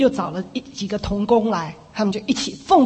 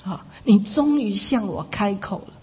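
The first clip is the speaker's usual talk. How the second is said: Jesus; 3 semitones lower than usual. Retold or imitated. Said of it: "主耶稣说".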